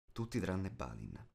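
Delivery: ordinary delivery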